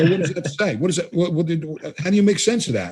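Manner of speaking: imitating puzzled coworkers, voice up high; baffled questions. Coworkers at the coffee break, baffled by his notes, asking in a high mock-bewildered voice.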